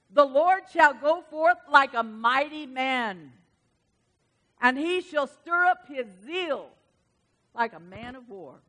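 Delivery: slow, ringing sermon read; preaching scripture. Acted. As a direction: build it up like a battle cry.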